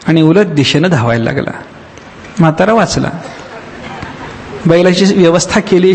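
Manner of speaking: normal talking voice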